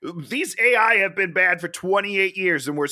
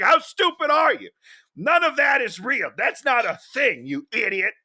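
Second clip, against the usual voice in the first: mocking dad; 6 semitones higher than usual. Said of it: "He's like".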